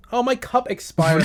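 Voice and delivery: ordinary talk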